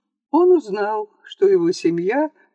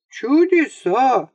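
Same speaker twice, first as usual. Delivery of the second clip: a slow, amazed cry, higher in pitch; exclaiming; 6 semitones higher, 3 dB louder, slower than usual. A narrator's reading. Unsuspecting host marvels at the coughing, slow amazed exclamation. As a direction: sing out the marvel, clueless of the trick. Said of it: "воскликнул ничего не подозревающий".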